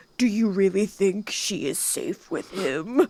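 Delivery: ominous, ghostly, eerie, spooky monster voice. Retelling a scene, voicing the big guy's question, spooky voice. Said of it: "the big horny guy says in a spooky voice".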